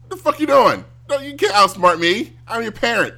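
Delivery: high, loud furious parent; angry parent yell. Retold or imitated. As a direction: yell at the kid who tries to outsmart you. Old-school parent yelling at kid.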